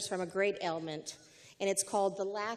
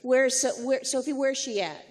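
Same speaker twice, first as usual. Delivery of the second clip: louder, playful pressing question; 2 semitones higher, 7 dB louder than usual. Real, not acted. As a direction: press her loudly, teasing. Playful host prodding guest.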